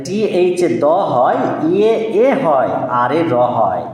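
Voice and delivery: letter sounds said slowly and clearly; slow sounding out. Shown as a demonstration. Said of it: "sounding out letters for child".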